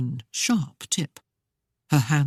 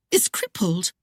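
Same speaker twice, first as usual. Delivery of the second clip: Claudia voiced; 3 semitones higher than usual. A narrator's reading. Claudia eyeing the heavy boot, lightly voiced woman. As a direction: trail off in doubt.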